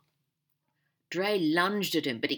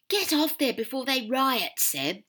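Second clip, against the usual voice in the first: begging; 9 semitones higher, 6 dB louder than usual. Acted. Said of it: "Max begged".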